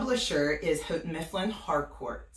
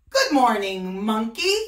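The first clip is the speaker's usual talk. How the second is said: louder call across the water; 4 semitones higher, 8 dB louder than usual. Acted. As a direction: call up to the tree. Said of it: "he called out".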